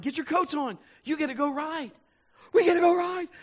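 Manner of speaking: high, loud joyful shout; excited call. Retold or imitated. Aunt and uncle calling to the kids, joyfully loud. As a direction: call out like announcing a treat.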